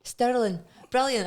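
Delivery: put-on "Stirling" in a copied Scottish accent; imitated Scottish accent. Host echoing the guest's town, imitated Scottish accent. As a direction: echo a Scottish local saying "Stirling". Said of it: "You picked up the accent".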